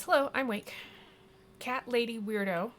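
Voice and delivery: lightly voiced game hero introducing themselves; bright-pitched hero greeting. Wake greets the cat lady, lightly acted hello.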